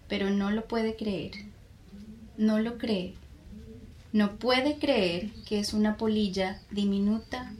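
measured poem recital with long pauses between lines; poem reading in Spanish. Shown as a demonstration. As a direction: read the poem aloud, line by line. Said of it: "you read it in Spanish".

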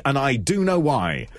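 signing off in the Robin Leach voice, pitched near his own; a light host sign-off, no big jump; understated celebrity catchphrase. Retold or imitated. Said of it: "he's got a very strange voice".

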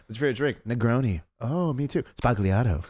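high, gushy server impression; mock fawning server. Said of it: "It's just the way she, like, cuts her off".

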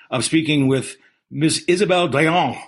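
put-on made-up French chef accent. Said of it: "I just adopted my French chef accent that I made up".

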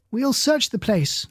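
slow, hesitant and unsure; slow, wavering offer to search the place. A narrator's reading. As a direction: say it while doubting yourself, slowly. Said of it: "Missus Henley said unsurely".

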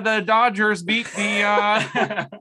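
sportscaster voice. Pretend. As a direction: call the play like a hyped sports anchor. Sportscaster bit, Marty with sports.

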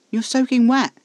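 high, loud outburst; exasperated exclamation. A narrator's reading. Protesting that soaked Casper can't leave now, exasperated.

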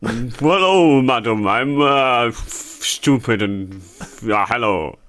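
bumbling Boris. Pretend. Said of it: "you be Boris Johnson".

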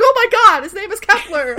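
mock panicked outburst, loud and high; freaked out. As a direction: blurt it out like a suspect cracking, hammed up. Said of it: "freaked the fuck out".

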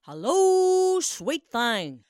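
high, loud crooning hello; drawn-out flirty croon; smooth prince greeting. Acted. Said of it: "a voice was heard".

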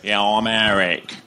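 slow, whiny nasal voice; a light whiny impression; a singer's whiny voice. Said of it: "horrible whiny voice".

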